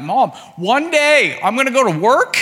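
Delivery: high, loud hammed-up wail; retold crying child. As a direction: play a panicking kid wailing at mom. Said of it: "and I'm crying".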